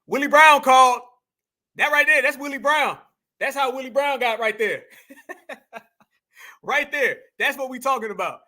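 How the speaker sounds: loud amused jeering, breaking into laughter; laughing. Real, not acted. Vlogger laughing at a freeze frame of her, loud and amused. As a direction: crack up at the frozen clip. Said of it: "Damn, that's funny".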